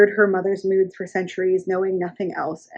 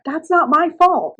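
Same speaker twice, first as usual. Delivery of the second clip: higher, whiny protest; 9 semitones higher, 4 dB louder than usual. Retold or imitated. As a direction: protest like a wronged teen. Daughter protesting to mother.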